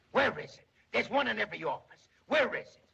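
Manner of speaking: frantic shout. Acted. Hunting for his tail.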